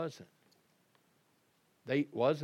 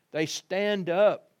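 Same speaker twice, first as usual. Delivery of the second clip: higher, louder and slow; rising exclamation; 6 semitones higher, 8 dB louder, slower than usual. Acted. Preacher to congregation, proclaiming the angels stood, louder. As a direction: lift it and proclaim it.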